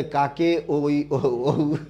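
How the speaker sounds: slow, puzzled mother's voice with a laugh; a mother calling out, confused by the lesson; student's mom overheard asking; imitating mom. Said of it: "আম্মু বলে".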